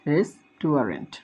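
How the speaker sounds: রেস্টুরেন্ট at a slow steady pace; teacher repeating the word for students. Shown as a demonstration. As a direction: say রেস্টুরেন্ট slowly again. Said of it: "আমরা খেয়াল রাখবো".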